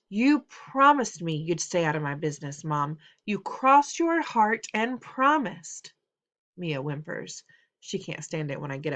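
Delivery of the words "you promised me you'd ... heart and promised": hurt accusing son. Acted. Son accusing his mother.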